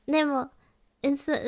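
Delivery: ordinary talk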